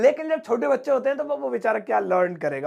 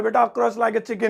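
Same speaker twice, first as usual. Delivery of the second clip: teacher's slow order; slower than usual. Retold or imitated. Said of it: "मेरे sir कहते".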